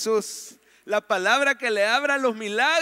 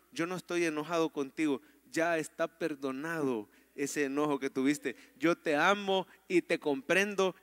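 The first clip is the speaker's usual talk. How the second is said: low, soft words of forgiveness; tender reassurance; 5 semitones lower, 5 dB quieter than usual. Acted. Pastor voicing the Lord to someone saddened, tender reassurance. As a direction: comfort a hurting believer gently. Speaks God's forgiveness to a hurting believer.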